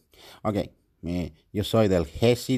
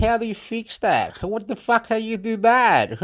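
panicked high quote; 9 semitones higher than usual. Retold or imitated. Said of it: "And I went".

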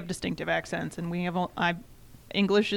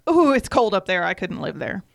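louder, playful "Ooh" with a shudder; mock shiver; 4 dB louder than usual. People hearing she's from Michigan, a louder mock shiver. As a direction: ham up the cold "Ooh".

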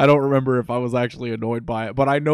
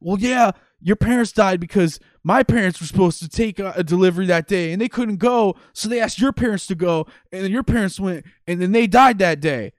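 Ignatz voice; 5 semitones higher, 4 dB louder than usual. Retold or imitated. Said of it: "And he goes".

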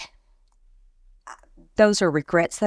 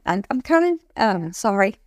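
choked up; 3 semitones higher than usual. Real, not acted. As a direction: voice catching with emotion. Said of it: "I get emotional talking about this".

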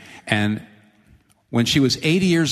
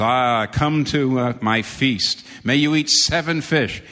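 gracious host; 2 semitones higher, slower than usual. Acted. Potentate's invitation voiced.

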